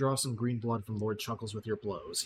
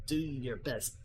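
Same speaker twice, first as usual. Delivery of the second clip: sneer, then call the servants slowly; lightly voiced gremlin lord; 3 semitones higher, slower than usual. Gremlin lord summons his servants against the human, rising call.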